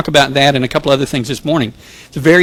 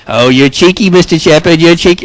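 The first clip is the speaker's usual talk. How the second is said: hammed-up, louder Australian accent; 5 dB louder than usual. Friends teasing the chaplain afterwards, in a mock Australian accent. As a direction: do a bad old-fashioned Australian accent that drifts towards England. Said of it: "That's my best Australian accent".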